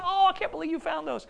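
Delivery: high, fast imitating his sister's thrill; sister's delight. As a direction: gush like the older sister. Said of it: "She was like".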